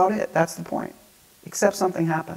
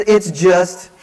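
mock choked-up start, pitched higher; imitated sobbing; 5 semitones higher, 5 dB louder than usual. Crying teen answering his youth worker, mock sobbing. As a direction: break off as if tears took over. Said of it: "just sobbing".

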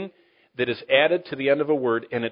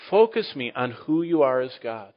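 focused prayer. Shown as a demonstration. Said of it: "we're supposed to focus".

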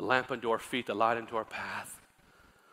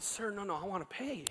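protesting; 8 semitones higher, 6 dB quieter than usual. Retold or imitated. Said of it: "And I said".

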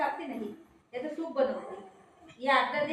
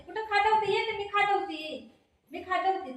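playful cooing; 7 semitones higher than usual. Real, not acted. Mother offering to scratch the child, high playful cooing. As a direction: coo it high, fussing over a little one.

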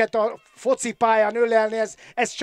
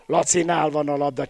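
ordinary talk

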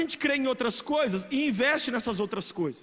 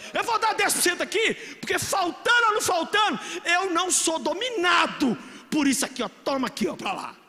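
loud, much higher mock declaration; bold giver's shout; 5 semitones higher, 3 dB louder than usual. Preacher voicing a giver who defies money, loud and high. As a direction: play the defiant tither.

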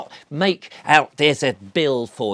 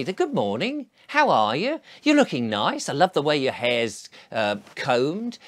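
bright overfriendly hello to a stranger; chatty, over-nice charm aimed at a parking warden; cheery friendly greeting. Retold or imitated. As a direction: disarm them with cheerful small talk. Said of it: "I will say".

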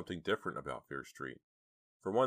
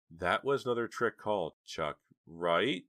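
higher, uneasy question; soft and scared; 4 semitones higher, 4 dB louder, slower than usual. A narrator's reading. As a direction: seek reassurance, nervously. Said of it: "her voice soft and sounding scared".

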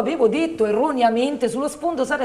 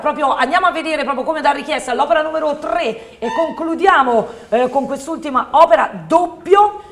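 infomercial. Acted.

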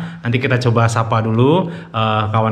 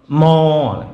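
cow moo imitation. Shown as a demonstration. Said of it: "it sounds".

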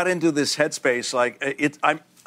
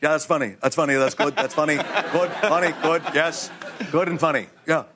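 short, repeated verdicts in place of laughter; mock-analytical appreciation; unlaughing approval; 3 semitones higher than usual. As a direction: imitate someone acknowledging a joke without laughing. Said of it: "he doesn't laugh at something".

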